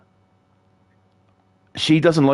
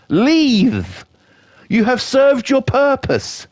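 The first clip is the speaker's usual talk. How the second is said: mock dismissal; 11 semitones higher, much slower than usual. Ranting at imagined old man.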